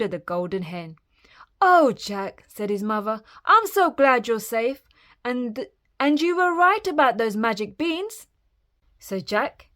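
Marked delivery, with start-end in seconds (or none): 1.6-2.4 loud, raised, heartfelt exclamation; relieved mother. A narrator's reading. Relieved mother greets son. 3.5-8.3 raised, gushing storybook mother; relieved mother. A narrator's reading. Relieved mother praises son.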